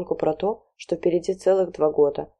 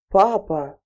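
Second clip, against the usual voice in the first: indignant; 2 semitones higher, 3 dB louder than usual. Acted. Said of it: "возмутилась Василиса".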